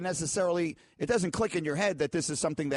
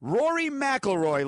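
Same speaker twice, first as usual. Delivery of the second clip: ring announcer; 8 semitones higher, slower than usual. Acted. Host dramatically introducing Rory McIlroy to listeners, ring-announcer style. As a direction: boom it out like introducing a fighter.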